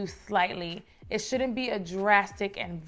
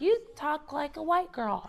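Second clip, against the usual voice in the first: higher-pitched teasing imitation; mocking imitation; 6 semitones higher than usual. Childhood peers teasing her about her speech, high mocking imitation. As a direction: tease it in a raised, put-on voice. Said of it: "I was made fun of growing up".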